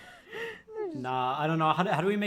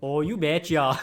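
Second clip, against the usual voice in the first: hammed-up Canadian accent; 4 dB louder than usual. Canadian Santa happily obliging, in exaggerated Canadian accent. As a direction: lean into the folksy Canadian accent. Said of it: "Canadian Santa".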